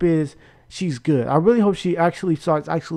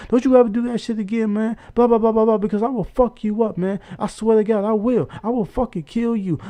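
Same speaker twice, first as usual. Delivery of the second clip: imitating an angry man's threats, raised pitch; mock-mad threats, pitched up; 5 semitones higher than usual. Retelling the boyfriend's warning to never do that again, mock-angry. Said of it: "he got mad talking about".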